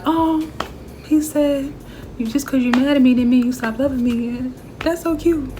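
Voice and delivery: high, gushing mock teariness; on the verge of tears. Viewer melting over a love confession, acted verge of tears. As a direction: play a touched viewer about to cry, lightly hammed-up. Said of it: "I'd literally be on the verge of".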